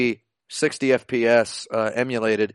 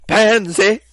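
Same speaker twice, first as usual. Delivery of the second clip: much higher and louder mock schoolgirl yell; schoolgirl shout; 8 semitones higher, 6 dB louder than usual. Schoolgirl threatening Ryo, hammed-up high yell. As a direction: screech it like the game's angry girl. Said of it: "like that".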